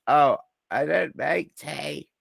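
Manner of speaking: a light imitation of a nasal, scratchy voice; mock the intern refusing tea. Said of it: "he has this really nasally, scratchy voice".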